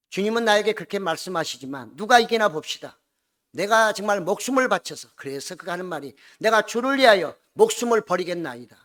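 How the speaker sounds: loud, high, defiant oath; defiant vow. Retold or imitated. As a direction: shout the vow of loyalty to the end. Peter's defiant loyalty vow.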